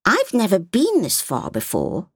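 put-on a curious little girl asking; little girl's voice. A narrator's reading. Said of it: "Sophia said".

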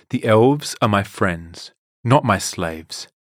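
slow, firm angry reply. Acted. Daisy refusing Silk Tongue's offer, slow and angry. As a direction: plant each word in defiance. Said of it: "Daisy said angrily".

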